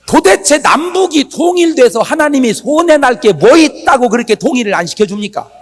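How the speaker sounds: high, loud pleading that builds to a shout; defiant prayer. Retold or imitated. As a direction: re-enact confronting God with a demanding plea. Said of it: "막 대들었어". (하나님께 대들듯 높고 크게 기도)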